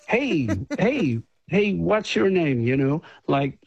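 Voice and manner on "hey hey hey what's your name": a hammed-up Canadian accent, a little higher. Musician imitating a Canadian stranger in a jokey Canadian accent. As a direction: greet him in a half-laughing fake Canadian accent. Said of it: "I can't do my Canadian accent".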